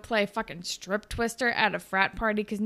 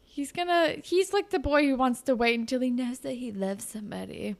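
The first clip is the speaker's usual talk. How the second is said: higher exasperated plea to Holly J; pleading with TV; 4 semitones higher than usual. Pretend. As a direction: beg the character to see sense. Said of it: "And I'm like".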